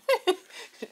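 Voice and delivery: high little chuckle. Real, not acted. Chuckles before telling her story.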